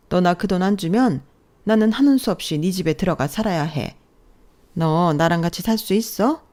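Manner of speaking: lightly voiced shameless mother-in-law; brazen mother-in-law. Mother-in-law demands money from daughter-in-law, brazen. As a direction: demand it as if owed.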